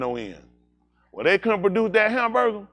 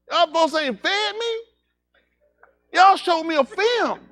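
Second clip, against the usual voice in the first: mock crying; 12 semitones higher, slower than usual. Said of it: "I hope you're crying".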